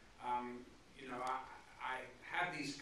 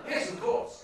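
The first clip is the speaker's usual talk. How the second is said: mock smug agreement; 9 dB louder than usual. Mock-smug reply to Lindsay.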